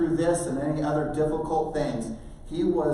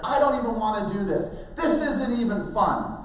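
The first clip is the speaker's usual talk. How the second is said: put-on higher-pitched teenage griping; whiny complaint; 5 semitones higher than usual. Son complaining to parent on the climb, whiny. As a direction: protest like a kid who hates the chore.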